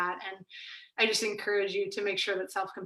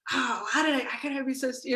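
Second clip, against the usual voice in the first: lightly acted self-reproach, pitched up; mock self-blame; 5 semitones higher than usual. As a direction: imitate someone getting on themselves. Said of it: "like, gets on ourselves".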